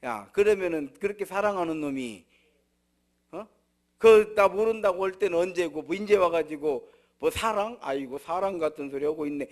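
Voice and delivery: loud, sneering mock scolding; scornful rebuke. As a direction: scoff at him like an indignant listener. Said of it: "우리 같으면 그렇게 할 거예요".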